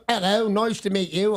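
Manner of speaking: a mocking, clumsy fake English accent. Host mocks LA women faking English, rough English accent. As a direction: do a so-so English accent, a bit overdone. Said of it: "Chicks would just go".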